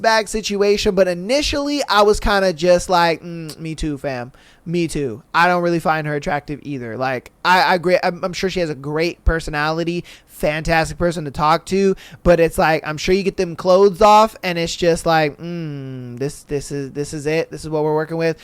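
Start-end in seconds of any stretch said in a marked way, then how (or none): 3.2-5.2 low, soft murmured admission; muted agreement. Retold or imitated. His muted first reaction, acted. 15.4-18.4 low, soft, unimpressed hum and comment; underwhelmed. Acted. Acting an underwhelmed reaction.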